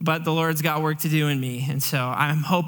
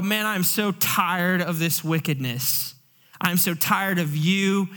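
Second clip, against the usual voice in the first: slow, smug mock complaint, a touch of holier-than-thou; mock self-righteous. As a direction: sneer it lightly like you're better than them. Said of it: "The whole attitude".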